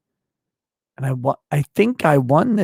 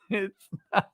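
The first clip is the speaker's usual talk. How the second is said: laughing; 5 semitones higher than usual. Real, not acted. Drunk, laughing, lost stylus.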